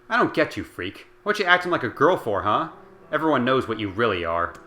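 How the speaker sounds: mock her loudly from above; taunting bully. A narrator's reading. Bully taunting Kaine on the ground, loud jeer. Demo taunting the curled-up girl.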